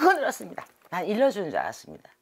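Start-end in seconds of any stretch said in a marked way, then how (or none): 0.0-0.6 excited, higher. Retold or imitated. Frantic shaking, voice jumps up.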